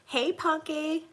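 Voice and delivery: high, slow cooing at the dog; pet voice. Real, not acted. Owner greets her dog in a cooing pet voice. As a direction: coo to the little dog.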